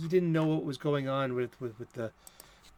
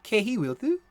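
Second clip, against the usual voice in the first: grandma's Irish; 6 semitones higher, 4 dB louder than usual. Retold or imitated. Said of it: "as my grandma would say".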